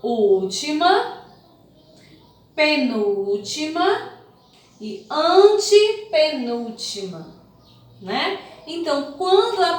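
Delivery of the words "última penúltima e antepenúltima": slow, measured listing with stretched stressed syllables; slow counting off. Shown as a demonstration. Teacher pointing out each syllable position, slow and deliberate. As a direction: count them off one by one, drawn out.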